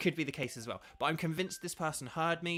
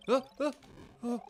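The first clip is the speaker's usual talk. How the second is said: startled gasp; 11 semitones higher, 3 dB louder than usual. Real, not acted. Close call in the game.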